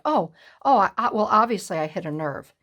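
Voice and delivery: mocking nonchalance. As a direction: parody her shrugging it off. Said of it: "you're so nonchalant about it".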